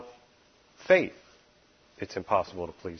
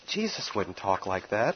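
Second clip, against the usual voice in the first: normal talking voice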